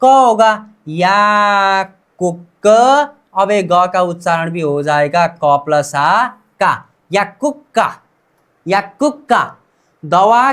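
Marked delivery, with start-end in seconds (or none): 0.9-2.7 या कुक very slow, "yaaa-kuk-ka"; pronunciation demo. Shown as a demonstration. Teacher builds the word for learners, pronunciation demo. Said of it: "मतलब उच्चारण क्या होगा?". 7.1-9.4 या कुक्का in three beats, "yak-kuk-ka"; pronunciation demo. Shown as a demonstration. Teacher repeats the finished word for learners, pronunciation demo. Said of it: "मतलब उच्चारण क्या होगा?".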